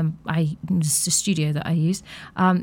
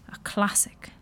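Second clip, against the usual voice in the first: whisper; 8 dB quieter than usual. Real, not acted.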